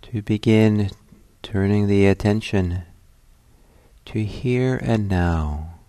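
unhurried meditation guidance with long pauses; guided meditation. Acted. Teacher settling listeners at the start of a meditation, calm guiding voice. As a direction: guide them gently inward, phrase by phrase, leaving silences.

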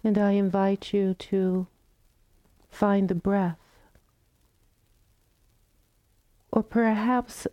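calm, unhurried meditation guidance with long pauses; guided meditation. Real, not acted. Teacher guiding the group into loving kindness practice, calm meditation voice. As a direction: gently invite them to settle, phrase by phrase.

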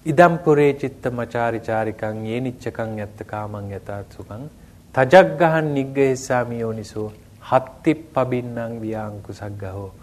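measured chant-like recitation of Pali scripture; Pali verse recitation. Shown as a demonstration.

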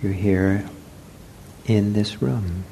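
unhurried meditation guidance with long pauses; guided meditation. Real, not acted. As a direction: guide them gently into the body, leaving space. Leads a seated meditation.

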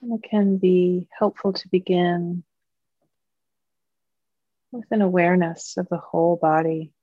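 calm, measured meditation guiding, long pauses between phrases; guided meditation. Acted. Teacher leading Dharma friends into mindfulness practice, calm guided meditation. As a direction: guide a group gently, leaving long silences.

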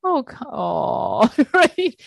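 high, laughing mock scold; mock self-judgment. Teacher mocking her own self-judgment, laughing and high. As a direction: laugh through a teasing inner voice. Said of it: "It's like".

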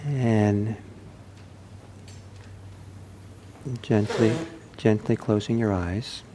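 unhurried guidance with long silences; calm meditation teacher, leaving room between phrases; guided meditation. Acted. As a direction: lead the sitters gently into stillness.

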